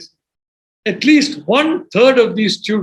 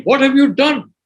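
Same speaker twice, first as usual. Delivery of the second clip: higher-pitched, mildly berating retort; 5 semitones higher, 3 dB louder than usual. Retold or imitated. Sociologists berating the speaker's friend, mildly scolding. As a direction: retell it as a mock scolding. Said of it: "all of whom started berating my friend".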